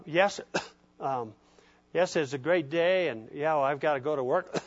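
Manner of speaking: talking through throat-clearing; imitated hacking cough. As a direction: imitate someone coughing between phrases. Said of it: "he's talking like this".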